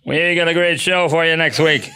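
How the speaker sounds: deep-register host impression; a hint of a low talk-show voice announcing; Jay Leno. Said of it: "the deep Jay Leno voice".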